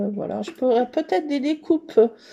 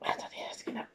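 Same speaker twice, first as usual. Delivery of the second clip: hushed whisper; 15 dB quieter, faster than usual. Real, not acted. Crafter whispering to herself over her page. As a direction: whisper while concentrating. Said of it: "Pourquoi je parle tout doucement".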